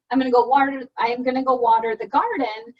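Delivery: loud and clear, every word carried; strong, clear voice. Shown as a demonstration. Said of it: "I'm able to say it in a good, strong, clear voice".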